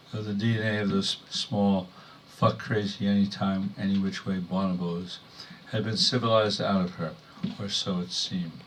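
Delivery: measured poem delivery in short phrases; poetry reading. Acted. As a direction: read a wry poem to an audience, pausing between phrases. Reads own poem to audience.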